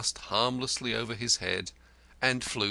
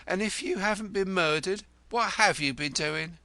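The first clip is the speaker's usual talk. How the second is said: 1 pressing demand; 9 semitones higher, 3 dB louder than usual. A narrator's reading. Wife presses again.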